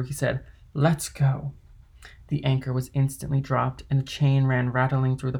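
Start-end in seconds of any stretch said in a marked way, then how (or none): 0.7-1.5 brisk call to the crew, a little raised; mild called-out order. A narrator's reading. Dantès to his crew, calling out. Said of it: "calling to the crew".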